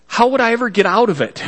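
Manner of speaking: quick, laughing self-mockery; a chuckle at his own folly. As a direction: laugh through the worry. Joking about tiny sports car.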